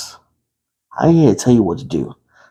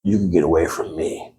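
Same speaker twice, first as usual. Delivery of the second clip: recoiling; 8 semitones lower than usual. Retold or imitated. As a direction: back away from the name. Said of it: "I'm like".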